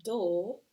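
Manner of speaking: loud, lone "dull"; isolated final syllable. Shown as a demonstration. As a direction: sound out "dull" as its own beat. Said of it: "I hear that final syllable".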